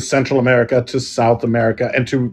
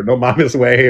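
Mexican slang. Retold or imitated. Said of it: "like Mexicans say".

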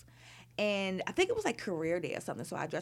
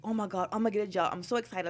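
excited gush; much faster than usual. Retold or imitated. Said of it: "we both was very enthusiastic".

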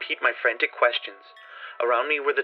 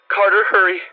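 tense whisper; 8 semitones higher, 4 dB louder than usual. A narrator's reading. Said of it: "his next whisper found me".

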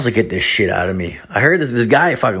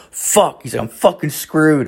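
retold dismay; 7 semitones higher than usual. Buddy realizes he must pay.

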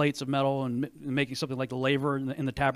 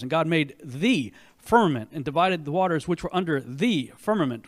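booming biblical narration; 4 dB louder than usual. Shown as a demonstration. Reading Genesis aloud, booming.

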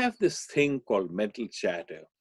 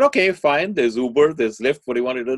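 exasperated mother; 2 semitones higher, 7 dB louder than usual. Acted. Mother offering son rideshare instead, exasperated. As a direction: toss out options, fed up.

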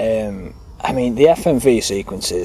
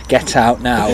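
firm order at normal volume; mock-stern shop worker's command; firm dismissal; slower than usual. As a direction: insist that they leave, no arguing. The dismissal repeated more firmly.

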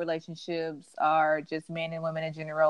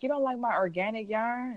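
flirty sexy line; 5 semitones higher than usual. Retold or imitated. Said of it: "I was just like".

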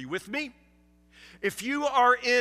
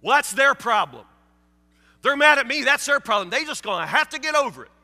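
shrugging, a touch louder brush-off; mock dismissive listener; 3 dB louder, faster than usual. Preacher voicing a churchgoer who shrugs it off. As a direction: wave it off as their problem.

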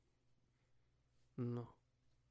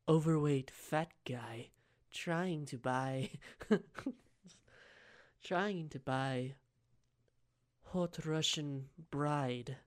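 hushed sly telling; 6 dB quieter, slower than usual. Acted. Sly story of the catch.

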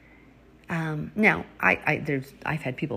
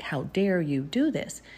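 slow, mildly indignant reproach; understated self-righteous outrage; self-righteous arrogance; slower than usual. Retold or imitated. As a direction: retell an arrogant scolding, drawn out. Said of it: "in a self-righteous arrogance".

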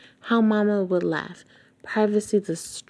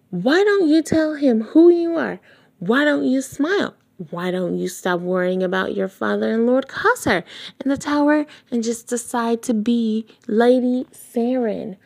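frustrated outburst; 4 semitones higher, 3 dB louder than usual. Acted. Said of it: "I know I didn't shout".

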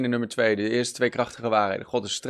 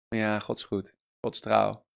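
mock cliché; 5 semitones lower, 8 dB quieter than usual. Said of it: "Het zijn niet simpele clichés".

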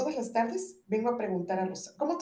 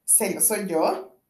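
startled; 5 dB louder, slower than usual. Acted. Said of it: "estremeciéndose".

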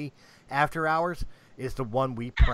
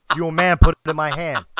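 laughing dare; 3 semitones higher, 8 dB louder, faster than usual. Real, not acted. Trash-talking bet challenge.

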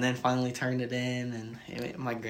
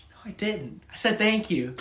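high-pitched protest, rising louder; defensive denial; 9 semitones higher, 7 dB louder than usual. Retold or imitated. Student denies insulting the teacher, defensive. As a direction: insist you're innocent. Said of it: "I was like".

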